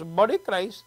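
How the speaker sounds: imitating an Indian priest; friendly Indian accent. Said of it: "my priest is Indian".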